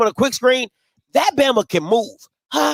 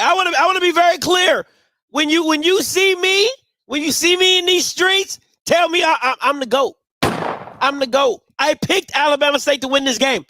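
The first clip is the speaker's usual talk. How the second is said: hyped bragging; 4 semitones higher than usual. Real, not acted. Bragging about his pick.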